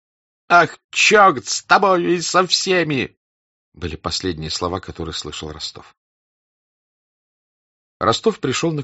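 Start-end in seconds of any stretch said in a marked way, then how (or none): 0.5-3.2 high, loud exasperated cry; angry outburst. Acted. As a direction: throw it after him in disgust. Denisov shouts after Rostov.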